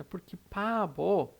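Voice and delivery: "pabo" stretched out, falling at the end; slow Korean word. Shown as a demonstration. Teacher introduces the word, slow and careful. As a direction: draw out "pabo" for the class. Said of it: "então é bobo".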